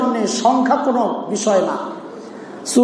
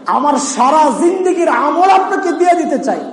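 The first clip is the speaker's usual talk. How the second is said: higher-pitched, pressing offer; emphatic plea; 5 semitones higher than usual. Retold or imitated. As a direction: repeat the offer as an earnest, raised appeal. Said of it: "Omar বলতেছেন". (উঁচু স্বরে জোরালো আবেদন)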